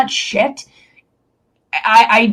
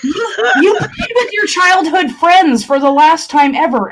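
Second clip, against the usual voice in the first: laughing; 5 semitones higher than usual. Real, not acted. Laughing while half crying.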